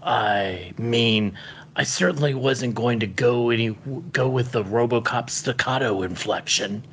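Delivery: a man who thinks this is how cyborgs talk; put-on cyborg voice. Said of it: "this is how cyborgs talked".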